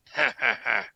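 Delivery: deliberate, spaced-out fake laugh; mock answering laugh. Game master as Huda mimics cackling skeleton, mock laugh. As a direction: laugh back at it in separate beats. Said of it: "Huda just looks back at it and gives this".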